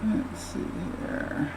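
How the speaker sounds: soft unvoiced whisper; whispered to self. Real, not acted. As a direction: breathe the words out to yourself. Quiet self-talk while drawing.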